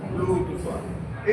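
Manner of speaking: "प्लुत स्वर" stretched slowly, vowels held long; drawn-out pluta demo. Shown as a demonstration. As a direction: hold every sound of "प्लुत स्वर" to show the long vowel. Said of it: "जैसे ओम".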